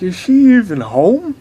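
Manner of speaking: high, loud call toward the house; loud puzzled call. Retold or imitated. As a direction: call out to see if anyone is home. Calling out at door.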